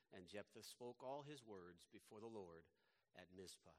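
measured Bible reading to a congregation; scripture reading. Acted. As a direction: read the passage aloud as solemn story. Reads scripture aloud to congregation.

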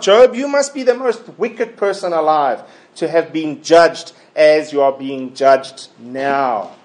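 sarcastic rhetorical questions, deliberately put; mock the accused with leading questions; Eliphaz's sarcasm. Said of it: "Eliphaz sarcastically asks Job".

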